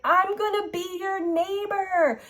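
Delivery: singsong retold excitement; excited friend. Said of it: "she was all excited".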